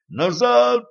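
sudden high yell. A narrator's reading. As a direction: shout it out in alarm. Devil yells back.

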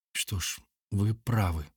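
slow, soft and pensive; thoughtful. Acted. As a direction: agree while lost in thought. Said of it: "задумчиво согласилась Машенька".

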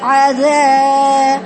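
عذا stretched very slowly; slow demo syllable. Shown as a demonstration. Teacher isolating the syllable for the student, drawn out. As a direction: draw out عذا. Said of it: "بنقرأ بعذاب ازاي؟".

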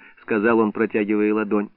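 plain reading voice

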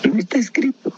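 hushed secret whisper. Real, not acted. Preacher telling listeners a mystery, whispered. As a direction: breathe it like a secret. Dramatic aside about the unknown.

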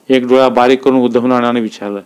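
ordinary delivery, nothing marked

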